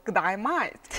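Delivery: Australian "G'day, mate" with mate like "mite"; Australian accent. Shown as a demonstration. Guest shows first word learned in Australia, Australian accent. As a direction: say it with broad Australian vowels. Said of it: "word that I learned in Australia was".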